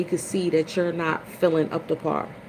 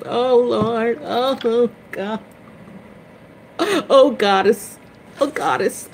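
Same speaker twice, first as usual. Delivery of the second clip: mock wail; 6 semitones higher, 4 dB louder, slower than usual. Wailing to Lord and Goddess.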